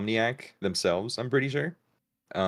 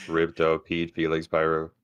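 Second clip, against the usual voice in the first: no inflection; 2 semitones lower, 5 dB louder than usual. Shown as a demonstration. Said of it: "careful not to add any inflection".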